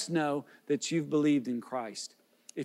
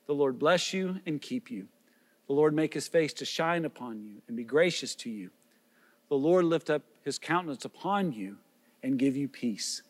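lower, measured priestly blessing; benediction; 3 semitones lower than usual. Real, not acted. Pastor blesses departing worshippers, solemn and measured.

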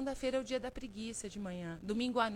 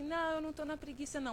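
negação defensiva; 5 semitones higher, faster than usual. Retold or imitated. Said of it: "você fala assim".

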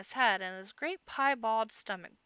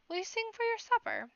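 jolly teasing chieftain; 13 semitones higher than usual. A narrator's reading.

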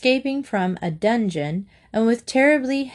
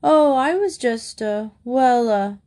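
put-on flustered boy; 4 semitones higher, 3 dB louder than usual. A narrator's reading. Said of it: "Harbin finished in disgust".

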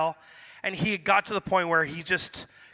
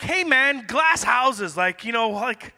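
offended comeback; 4 semitones higher, 4 dB louder, slower than usual. Retold or imitated. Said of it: "I was offended".

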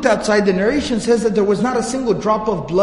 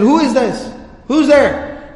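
raised, slightly higher challenge; calling out; 4 semitones higher, slower than usual. Retold or imitated. Abu Jahl asks who is knocking, calling out. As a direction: ask sharply who is at the door. Retold call from behind door.

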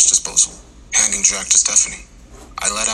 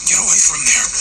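higher, louder desperate scream; 6 semitones higher, 3 dB louder than usual. A narrator's reading. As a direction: scream from a broken body. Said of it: "Lewis screamed".

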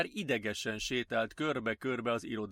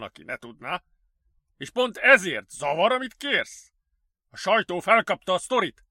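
loud, high, emphatic protest; objecting director; 5 semitones higher, 7 dB louder than usual. Acted. Director balking at colleague's risky request, emphatic. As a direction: push back with stretched, weighty words.

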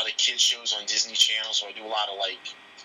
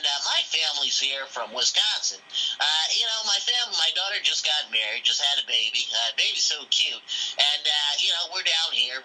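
a lightly put-on Quagmire voice; changed voice; 3 semitones higher than usual. Caller on the phone to a restaurant in a changed voice. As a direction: charm the customer service lady. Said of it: "I changed my voice up".

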